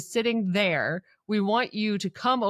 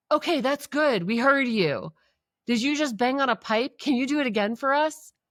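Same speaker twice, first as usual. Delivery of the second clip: acted-out shouting, much higher pitch; 4 semitones higher than usual. Recounting a scene where someone calls out after a pipe clangs, retelling a shout. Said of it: "Zach shouts".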